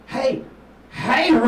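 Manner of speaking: loud, high hobo hollering hey bro; calling out. Retold or imitated. Hobo at a traffic light hollering at the comic, loud call.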